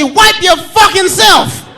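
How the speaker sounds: slow, fed-up dad retort; imagined angry reply. Retold or imitated. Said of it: "I want to say".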